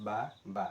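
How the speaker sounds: বা twice in a row, short and even; counting syllables aloud. Shown as a demonstration. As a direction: show how long two বা take. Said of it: "আমি দুটো দুইবার উচ্চারণ করতেছি".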